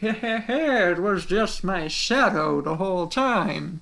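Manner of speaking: poor put-on bossy voice, drawn out. Retelling a boss fight in his casino: bad Oogie Boogie impression. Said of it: "That was not a good impression of him".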